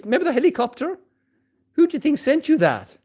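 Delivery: mild mock God; God's reply. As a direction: ask it like a gently amused God. God answering the man.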